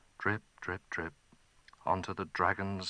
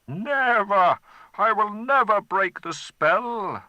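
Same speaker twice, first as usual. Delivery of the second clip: higher, loud defiant refusal; defiant dragon; 12 semitones higher, 8 dB louder than usual. Acted. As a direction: fling the word back at him. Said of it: "answered the dragon".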